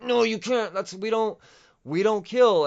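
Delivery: acted-out Avengers protesting loudly; mock protest. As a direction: object in a high, stammering plea.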